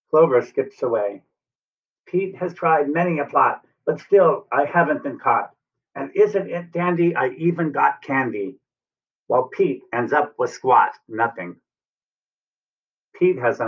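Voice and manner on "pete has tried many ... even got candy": lilting, raised rhyme; gloating leprechaun. Acted. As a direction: tease in sing-song verse. Clover's taunting rhyme.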